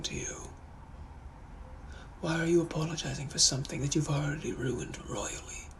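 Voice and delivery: cold, hushed British scolding; dark Victorian gent scolding an apologiser; stern British gentleman. Acted. Gentleman to someone over-apologising, stern British accent. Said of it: "I'm also a British gentleman from the eighteen hundreds".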